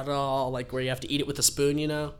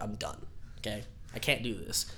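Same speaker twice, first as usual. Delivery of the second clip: much softer giving-up voice; mock defeated quitting; 5 semitones lower, 10 dB quieter than usual. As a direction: give up with a deflated sigh. Friend quitting game after dying.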